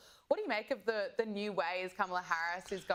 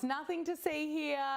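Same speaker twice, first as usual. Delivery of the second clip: mock dismissive; 8 semitones higher than usual. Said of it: "How's the response?".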